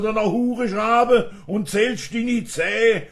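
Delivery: loud, high-pitched volley of insults; acted angry threats. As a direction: hurl playful-poem insults at full voice. (laut und hoch drohend, gespielte Wut)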